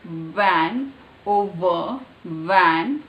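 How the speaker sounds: VAN and OVER with a strong buzzed V; V sound. Shown as a demonstration. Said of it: "back to V".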